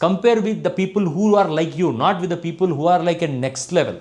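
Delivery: very slow, word-by-word lecturing; drawn-out deliberate English; slow emphatic. Real, not acted. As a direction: spell it out slowly like a warning. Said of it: "slow emphatic contrast".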